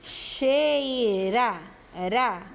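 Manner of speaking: drawn-out CHEIRA with a soft tapped R; soft R demo. Shown as a demonstration. Teacher sounds out Cheira for pupils, soft tapped R. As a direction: stretch Cheira slowly, tapping the R in "ra" lightly. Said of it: "É um som fraco".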